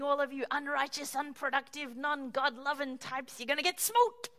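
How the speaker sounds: self-righteous tirade building up; gloating condemnation. Retold or imitated. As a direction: pronounce their doom with relish. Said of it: "they're saying".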